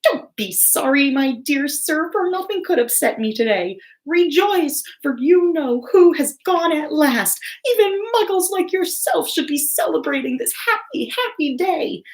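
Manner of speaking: put-on high, squeaky, overjoyed old man. A narrator's reading. Tiny old man beaming at Mr Dursley, high squeaky voice. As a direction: squeak it out with delight. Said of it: "he said in a squeaky voice".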